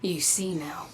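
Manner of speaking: soft unvoiced whisper. A mysterious guide whispering to the Guardian. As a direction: breathe it like a secret.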